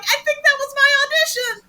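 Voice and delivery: telling actors how he got cast; giddy disbelief. Real, not acted. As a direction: say it dazed with joy. Giddy reply.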